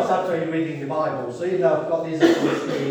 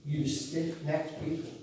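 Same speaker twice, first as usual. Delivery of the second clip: building scripture rebuke; 2 semitones higher, slower than usual. Acted. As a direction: read Stephen's accusation with growing force. Reads scripture aloud.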